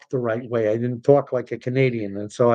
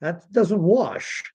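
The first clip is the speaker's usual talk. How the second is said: very slow and pointed; firm dismissive verdict; slow emphatic; 5 semitones higher, much slower than usual. Real, not acted. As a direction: lay each word down slowly. Closing the rant.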